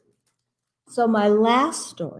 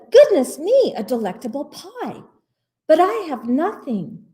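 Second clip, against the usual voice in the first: bear sighing; 7 semitones higher than usual. Acted. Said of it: "he adds with a sigh".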